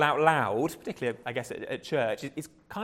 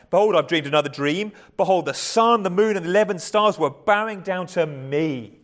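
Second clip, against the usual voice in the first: lofty, boastful proclamation, a little louder; arrogant reading; 3 semitones higher, 5 dB louder than usual. Shown as a demonstration. Preacher reading Joseph's second dream, boastful and proud. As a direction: lord it over them as you tell it. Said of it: "you could read it in that kind of arrogant voice".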